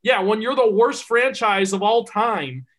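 heated slow emphasis; emphatic rant. Real, not acted. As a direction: hammer home the point.

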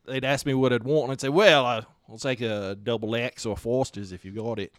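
lightly put-on Australian accent. Bar regular ordering from waitresses, in an Australian accent. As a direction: order a drink as a mock Australian. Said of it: "I would do the Australian accent".

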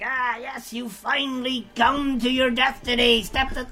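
dramatic fantasy NPC voice; grand storyteller voice; in-character DM voice. Shown as a demonstration. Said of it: "I'm talking to you in character".

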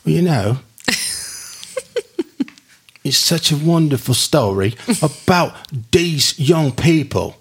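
put-on British accent. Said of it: "I'm gonna do my famous British accent".

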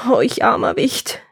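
mildly acted lament; wailing. Stranded woodcutter pitying himself, wailing. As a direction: lament your plight like a poor wretch. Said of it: "jammerte der Mann".

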